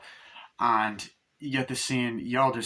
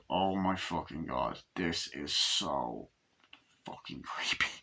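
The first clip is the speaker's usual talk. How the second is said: creeped-out whisper; 8 semitones lower, 7 dB quieter, slower than usual. Real, not acted. Reviewer creeped out by the scene.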